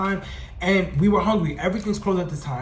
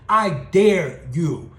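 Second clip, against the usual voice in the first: slow defiant dare; 4 dB louder, much slower than usual. Retold or imitated. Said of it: "I said".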